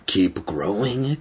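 slow, strained inward urging; will it to happen, drawing the words out; urging himself. A narrator's reading. Evan silently wills his body to grow taller, urging himself. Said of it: "he silently urged himself".

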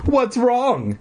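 high, cheery mom. A narrator's reading. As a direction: ask it like a chirpy mom. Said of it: "she asked".

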